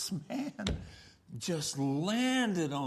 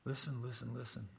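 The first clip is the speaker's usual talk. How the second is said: gentle counsel; 6 semitones lower, 4 dB quieter, slower than usual. Retold or imitated. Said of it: "and I said".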